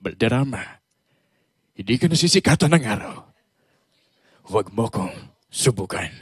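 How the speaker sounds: deep, menacing film voice; lightly voiced film villain; movie villain impression. Impressionist quoting a famous film line in deep voice. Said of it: "Tulad ng".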